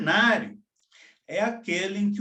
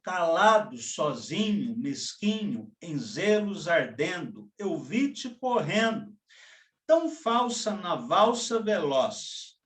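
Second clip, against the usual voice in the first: poem recital; 2 semitones lower than usual. Acted. Teacher reciting a poem to the class, measured and lyrical. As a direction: recite the waltz verses with feeling.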